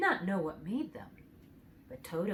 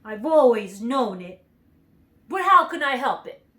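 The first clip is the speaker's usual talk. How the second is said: ashamed; 3 semitones higher, 10 dB louder than usual. A narrator's reading. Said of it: "hanging his head in shame".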